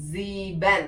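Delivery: "സീബൻ" as German sieben, long zee then ben; "സീബൻ" with voiced z and drawn-out ee; careful German pronunciation. Shown as a demonstration. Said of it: "correct pronunciation ആയിരിക്കണം".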